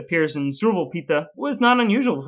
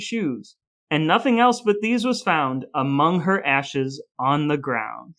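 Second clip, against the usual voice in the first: dramatic verse reading. Acted. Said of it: "it concludes with the next couple stanzas".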